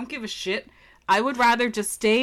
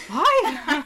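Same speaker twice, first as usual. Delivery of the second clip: higher mock kid question with laughter; pitched-up, playful imitation of a kid; pestering child; 6 semitones higher than usual. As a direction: play a child endlessly asking. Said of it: "You're like".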